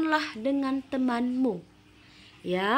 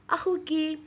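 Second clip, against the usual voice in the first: put-on higher questioning girl's voice; Jamila asking; 6 semitones higher than usual. Shown as a demonstration. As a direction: ask after the brother as Jamila. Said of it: "ditanya lagi nih sama si Jamila".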